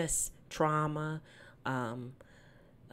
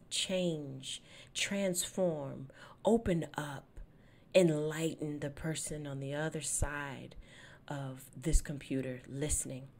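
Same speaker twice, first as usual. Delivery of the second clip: soft, earnest prayer voice, dropping quieter; opening prayer; 4 dB quieter than usual. Acted. Host praying to God before the episode, softly and earnestly. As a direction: pray intimately over the podcast.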